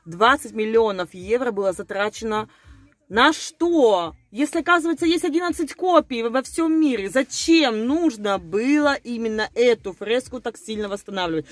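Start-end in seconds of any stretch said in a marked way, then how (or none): none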